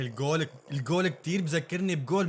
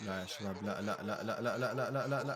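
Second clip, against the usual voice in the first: much softer, lower despairing no; quiet dismayed refusal; dismayed groans; 8 semitones lower, 10 dB quieter than usual. Real, not acted. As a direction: sink into disbelief. Despair at disallowed goal.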